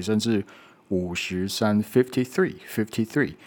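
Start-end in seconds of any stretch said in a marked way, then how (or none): 1.8-3.4 fifty-three with both f's clearly on the lip; two f sounds in fifty. Shown as a demonstration. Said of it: "fifty就会有两个F的声音". (fifty-three里的两个f都要咬唇)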